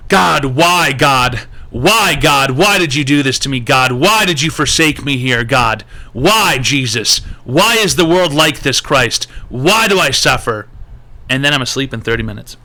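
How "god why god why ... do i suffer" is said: loud anguished wailing at God; crying with rage. Retold or imitated. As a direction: rage and despair, shouting to heaven. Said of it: "and I go".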